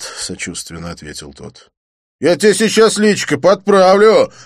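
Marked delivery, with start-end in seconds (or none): 2.2-4.3 high, loud barked threat; snarling threat. A narrator's reading. The thug threatens Didier, barking. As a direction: bark it at him. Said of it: "рявкнул блондин".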